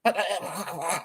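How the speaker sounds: quiet imitated stutter; stutter demo. Shown as a demonstration. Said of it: "if you call that a stutter".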